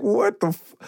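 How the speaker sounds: high, stunned reaction, dragging out the last words; drawn-out mock bewilderment; retold shock. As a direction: replay being floored, starting high and slowing right down. Retells shock at British accent.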